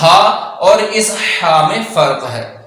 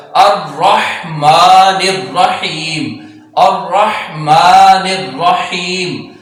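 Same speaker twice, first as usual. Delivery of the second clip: drawn-out Quranic recitation, slow; much slower than usual. Shown as a demonstration. Teacher reciting slowly for students. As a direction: recite each word slowly and clearly. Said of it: "ایسے ہی پروناؤنس کیا جائے گا".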